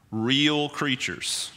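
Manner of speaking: breathed whisper, very slow; hushed whisper. Real, not acted. Preacher to congregation on demons, slow whisper. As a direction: whisper it like a secret warning.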